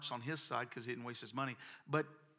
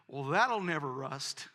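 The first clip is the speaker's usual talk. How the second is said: slow, louder punchline drawl; drawled joke; 6 dB louder, slower than usual. Retold or imitated. Farm worker teasing the boy about the tar, slow and amused. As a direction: let the farmhand savor the joke slowly.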